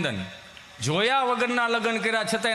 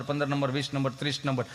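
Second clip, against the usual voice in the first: ordinary delivery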